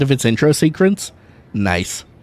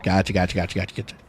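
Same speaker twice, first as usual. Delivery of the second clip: fading gotchas; 8 semitones lower, 9 dB quieter, much faster than usual. Real, not acted. Repeated, fading out.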